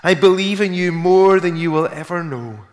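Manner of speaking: high, loud acted declaration of faith; desperate avowal. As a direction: swear it fervently to your rescuer. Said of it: "the guy, still hanging on".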